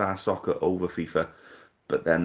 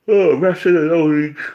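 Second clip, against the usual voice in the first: loud outburst; 8 semitones higher, 10 dB louder than usual. Real, not acted. Exasperated outburst about referees.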